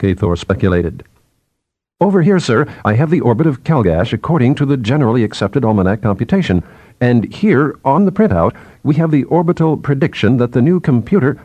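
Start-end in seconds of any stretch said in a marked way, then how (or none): 2.0-11.4 higher, hurried junior scientist; lightly voiced chattering assistant; eager young subordinate. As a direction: explain the printout eagerly to your superior.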